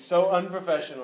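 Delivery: lightly voiced Trump scolding; a hint of Trump disdain; Trump impression. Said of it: "President Trump here".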